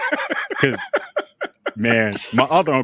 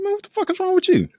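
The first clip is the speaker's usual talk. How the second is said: pissed-off uncle; faster than usual. Retold or imitated. Uncle quoted in retold fight.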